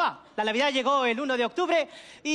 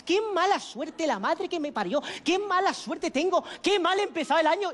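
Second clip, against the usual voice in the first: slow, drawn-out mock lament; acted self-pity; 3 semitones higher than usual. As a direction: bemoan your bad luck, hammed-up. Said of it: "vas toda la noche agobiado".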